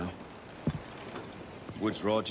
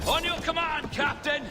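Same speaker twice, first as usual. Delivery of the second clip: shouted reply. Acted. Answering captain's battle order.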